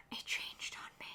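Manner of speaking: hushed, whispered shock; stunned, barely voiced discovery; dismayed whisper. Real, not acted. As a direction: whisper it as if just caught out. Dismayed discovery while reading date.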